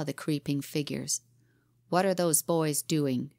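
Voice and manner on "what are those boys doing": sharp. Acted. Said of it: "he said sharply".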